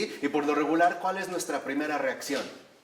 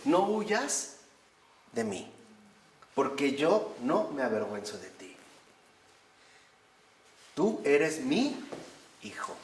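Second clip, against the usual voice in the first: tender voice of God. Retold or imitated. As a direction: hold out your arms with the words, gently. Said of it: "con lágrimas en los ojos".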